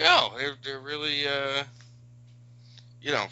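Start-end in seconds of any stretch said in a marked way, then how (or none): 0.0-1.6 mock flustered nervous high voice; voicing him caught off guard; awkward quote. A mate quoting a flustered guy, high and nervous. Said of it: "he's like".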